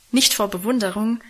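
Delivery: ordinary delivery, nothing marked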